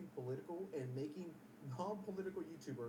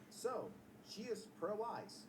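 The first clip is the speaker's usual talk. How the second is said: slow, drawn-out mock troll; mock troll reply; 4 semitones higher, much slower than usual. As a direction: read the tweet like a smug troll. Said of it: "retards like this, for example".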